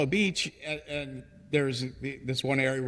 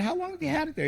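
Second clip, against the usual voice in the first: mock incredulous question; much faster than usual. Retold question to restaurant owner.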